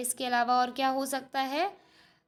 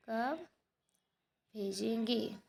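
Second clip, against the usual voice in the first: slow dictation; 9 dB quieter, slower than usual. Shown as a demonstration. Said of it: "teacher dictating answer".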